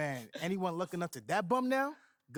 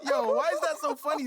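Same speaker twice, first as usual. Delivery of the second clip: asked through laughter, louder; laughing, louder question; 7 semitones higher, 7 dB louder than usual. Acted. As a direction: still cracking up as you ask. Cracking up at the joke.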